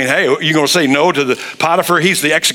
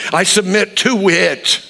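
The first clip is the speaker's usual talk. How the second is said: slow surrender; 2 semitones higher, slower than usual. Shown as a demonstration. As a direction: say it slowly, giving in. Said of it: "look in the mirror and say".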